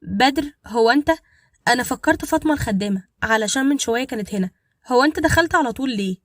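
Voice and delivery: nervously blurting out the questions. Acted. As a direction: caught off guard, voice tight with nerves. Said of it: "وقالت بتوتر".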